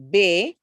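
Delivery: put-on "baby" as bay, long gap, bee; split into syllables. Shown as a demonstration. Teacher saying remember, "baby" split in two. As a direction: push out "bay", pause, then a separate "bee". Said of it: "Two syllables".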